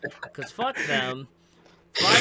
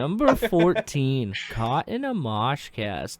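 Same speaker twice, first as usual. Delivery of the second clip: creepy narrator; slower than usual. Pretend. Mock creepy meme narration.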